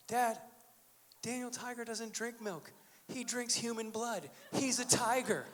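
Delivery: lightly imitated child, in total sincerity; earnest little boy. Five-year-old son sincerely corrects his dad, earnest child voice. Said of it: "with all sincerity and honesty and no sarcasm".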